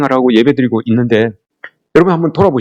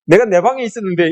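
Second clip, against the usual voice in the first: put-on cheeky child's protest; 6 semitones higher than usual. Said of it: "이렇게 하면".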